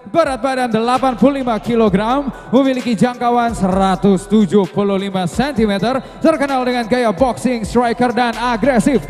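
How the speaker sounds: big arena announcer read; ring announcer. Acted. Ring announcer introduces blue corner.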